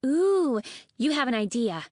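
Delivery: high, loud excited ooh. A narrator's reading. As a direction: burst out with delight. Fate Speaker gets excited.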